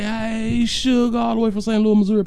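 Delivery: high, affectionate call-out; greeting. Real, not acted. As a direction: sweet-talk a viewer in a high voice. Greeting a viewer by pet name.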